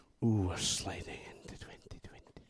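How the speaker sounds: threatening delivery. Trying for a sultry New Year line, in a menacing tone. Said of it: "It sounded menacing".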